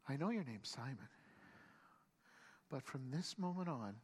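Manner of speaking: low, soft, measured pronouncement; solemn renaming. Acted. Jesus solemnly renames Peter.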